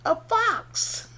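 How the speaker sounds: high answer breaking into giggles; amused, high-pitched reveal with a laugh. Real, not acted. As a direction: announce it high, then chuckle.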